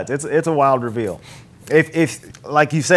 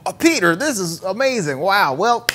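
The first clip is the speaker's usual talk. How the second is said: lightly voiced Beck, higher and overly chummy; fake friendly Beck; 4 semitones higher than usual. Retelling Beck sending Peter off, fake friendly. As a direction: sell the fake warmth. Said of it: "and he's like".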